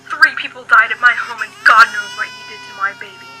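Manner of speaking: loud, crying through the words; choking up over her baby; tearful. Acted. Mother tells the agent of the murders, crying.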